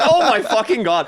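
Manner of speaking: fed up and loud; exasperated. Retold or imitated. Exasperated at drunk friend.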